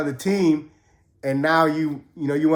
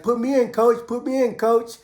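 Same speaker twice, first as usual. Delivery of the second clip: pleading teammate; 6 semitones higher than usual. Retold or imitated. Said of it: "he's like".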